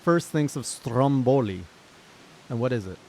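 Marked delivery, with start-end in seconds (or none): 0.0-1.6 louder, baffled disbelief; incredulous outburst. Real, not acted. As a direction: protest the absurd word in real bafflement.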